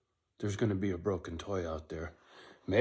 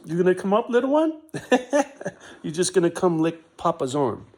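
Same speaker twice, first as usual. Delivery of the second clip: much higher, louder doting voice; 10 semitones higher, 12 dB louder than usual. Real, not acted. Owner calling his dog up to him, high doting baby talk. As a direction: coo at the dog like a proud papa.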